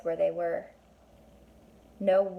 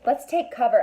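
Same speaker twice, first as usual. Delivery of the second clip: urgent call; 4 semitones higher, 6 dB louder than usual. Acted.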